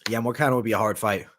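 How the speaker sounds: talking through a mouthful of bagel; mouth full. Real, not acted. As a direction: say it while chewing. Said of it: "talking with my mouth full".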